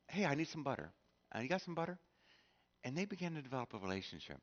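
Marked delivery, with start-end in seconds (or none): 0.1-2.0 friendly ask. Retold or imitated. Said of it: "she'd go over and say".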